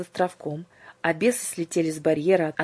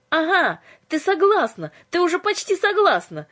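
much higher, louder gleeful cry; a squeal of triumph that she has almost agreed; excited shout; 13 semitones higher, 7 dB louder than usual. Acted. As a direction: crow with delight as she wins her over. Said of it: "закричала Юлька".

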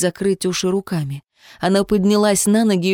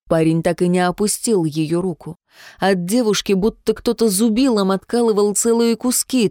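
ordinary delivery, nothing marked

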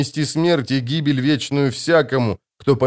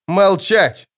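loud, higher barked order; barked command; 8 semitones higher, 4 dB louder than usual. A narrator's reading. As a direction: snap the order out. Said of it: "рявкнул Пауль". (громкий резкий окрик)

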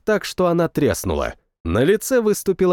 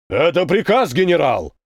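barked order. A narrator's reading. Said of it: "рявкнул безопасник".

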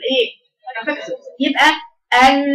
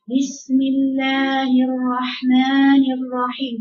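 slow, limp basmala with no drive; lazy recitation; much slower than usual. Shown as a demonstration. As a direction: mumble it like a lazy reader. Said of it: "ده كسلان". (بسملة كسلانة بلا قوة)

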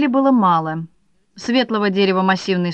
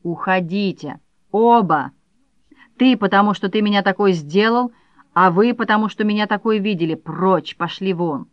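angry. Acted. Furious wife drives them out.

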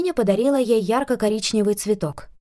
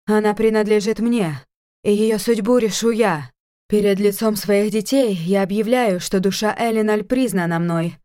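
eerie otherworldly voice. Acted. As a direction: proclaim it like a possessed oracle. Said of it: "вещала жутким потусторонним голосом".

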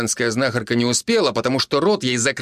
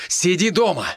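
yelling; 6 semitones higher than usual. A narrator's reading. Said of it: "заорал Евген на всю машину".

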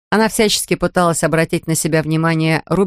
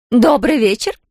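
sing-song greeting; 6 semitones higher, slower than usual. A narrator's reading. Kerensa greets the Americans, sing-song and higher. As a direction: lilt it out to charm them. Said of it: "пропела она".

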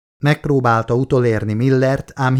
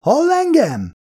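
calling out; slower than usual. A narrator's reading. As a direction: shout down the hole. Calling down into the pit.

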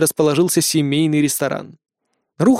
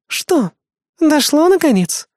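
smirking; 11 semitones higher, 3 dB louder, slower than usual. Acted. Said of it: "усмехнулась помощница".

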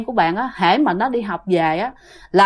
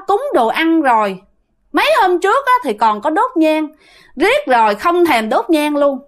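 high-pitched scolding spirit through the mother; a spirit in the mother's body scolds the family for skipping offerings, high and scolding; possessing spirit scolding; 5 semitones higher than usual. Retold or imitated. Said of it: "mẹ lại chửi ba vậy nè".

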